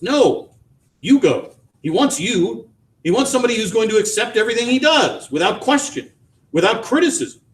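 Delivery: high, rushed resentful reproach; bitter refusal. A narrator's reading. Wife resenting husband's loyalty to son, bitter. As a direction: spit out the grievance.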